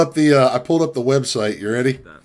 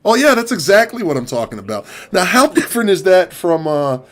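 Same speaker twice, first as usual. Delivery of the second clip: customer caller; 3 semitones higher than usual. Retold or imitated. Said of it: "This is my impression".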